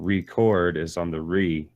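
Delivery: "record" slowed, with weight on the first syllable "re"; stress on RE. Shown as a demonstration. Challenging the rule slowly, "re" stressed in "record". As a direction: lean on "re" in "record". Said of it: "And the emphasis".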